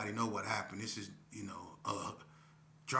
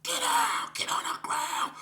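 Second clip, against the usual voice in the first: high, loud strained yelling; hollering cops; 9 dB louder, slower than usual. Retold or imitated. Police swarm teen at gunpoint, hollering orders. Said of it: "They start hollering".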